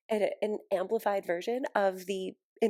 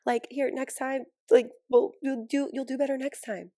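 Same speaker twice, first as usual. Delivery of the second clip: lightly raised, gentle reassurance; soothing puppy talk; 5 semitones higher, 4 dB louder than usual. Retold or imitated. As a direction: comfort the puppy after an accident. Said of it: "I'm just like".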